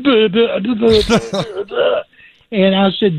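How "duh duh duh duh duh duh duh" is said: stuttering cartoon pig, a little higher; tongue-tied cartoon pig sputter, pitched up; Porky Pig stammer. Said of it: "sounded like Porky Pig".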